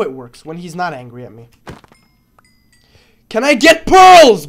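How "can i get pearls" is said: mock begging voice. Begging piglins for pearls.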